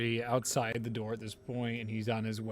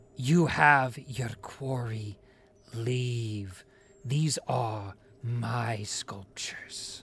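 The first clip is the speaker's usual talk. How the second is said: put-on witch character voice; 4 dB louder than usual. Narrating to the players, the speaker voices the witch heard as the cave shakes: witch voice. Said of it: "you hear the witch's voice".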